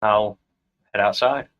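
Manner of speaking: talking around a cigarette; words round a lit cigarette; cigarette in mouth. Real, not acted. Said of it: "I currently have a cigarette in my mouth".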